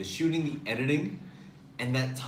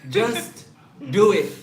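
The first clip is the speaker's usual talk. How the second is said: pushy urging; 3 semitones higher, 5 dB louder than usual. Retold or imitated. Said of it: "she was like".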